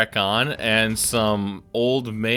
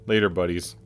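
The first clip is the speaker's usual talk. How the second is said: lightly voiced postman farewell; imitating Buddy; 3 semitones lower, faster than usual. Streamer quoting the postman's goodbye, lightly imitating. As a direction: toss off Buddy's goodbye casually. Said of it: "that little farewell that he says".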